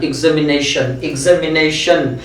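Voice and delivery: एग्जामिनेशन as ig-zam-i-NAY-shun; correct pronunciation. Shown as a demonstration. Teacher modelling exam words for students. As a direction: repeat एग्जामिनेशन with a g-z start. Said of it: "इसका sound होता है".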